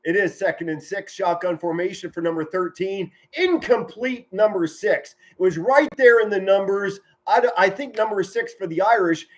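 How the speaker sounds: animated football call; sportscaster stretching key words; live play-by-play. Real, not acted. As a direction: call the incompletion and reset the down.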